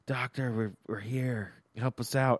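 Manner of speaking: lightly acted furtive call for help; mock whisper. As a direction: keep it down as if hiding. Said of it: "they're trying to whisper behind the robot".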